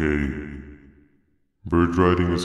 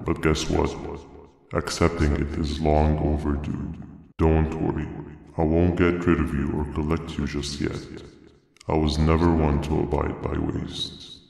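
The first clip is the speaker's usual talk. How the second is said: menacing villain. Acted. Villain speaks to the player.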